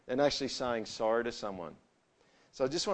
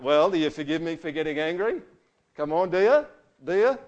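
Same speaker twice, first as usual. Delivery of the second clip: louder, higher, pushy questions; demanding; 4 semitones higher, 8 dB louder than usual. Retold or imitated. To someone hurt, demanding forgiveness after getting angry. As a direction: press them for an answer, insistently. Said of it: "the demanding kind of questions".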